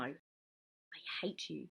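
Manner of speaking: very slow, soft hiss of hatred at her mum. A narrator's reading. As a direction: push each word out slow and low. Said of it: "Lydia hissed at her mum".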